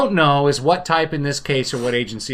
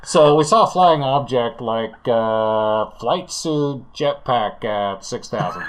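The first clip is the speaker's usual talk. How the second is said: pilot's report, sinking low and slower; radio in as a pilot, slowing down; airline pilot; 4 semitones lower than usual. Acted. Pilot describes the flying object to tower, lightly voiced pilot. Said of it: "as the China Airlines zero zero six crew".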